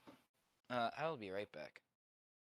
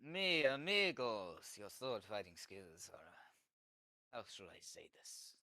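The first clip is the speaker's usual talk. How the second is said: lightly hammed-up masked hero toying with his foes; swashbuckler's taunt; 4 dB louder than usual. Player taunts soldiers in character.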